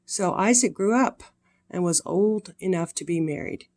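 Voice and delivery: gentle storybook reading voice; sweet old lady. A narrator's reading. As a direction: read it warmly to little ones. Reads Bible story to children.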